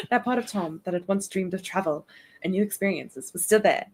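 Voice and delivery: British narration drifting in origin; wandering British accent. Acted. Streamer retrying the line after laughing, wandering British accent. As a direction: attempt British and lose the region. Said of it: "I don't know where we are".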